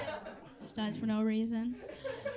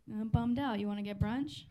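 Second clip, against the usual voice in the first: bummed-out dude friend; 2 semitones lower than usual. Acted. Dude friend asks his pal for small favours, mildly deflated. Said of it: "My dude friends sound like".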